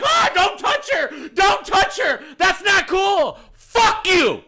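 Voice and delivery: mocking high, shouted protest; protesting women. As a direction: mimic outraged bystanders at the top of the voice. Imitated women protesting at security.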